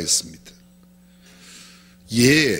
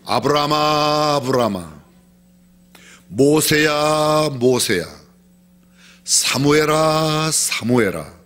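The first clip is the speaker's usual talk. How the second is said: calling names twice; much slower than usual. Retold or imitated. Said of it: "여러 번 성경에도 나와요".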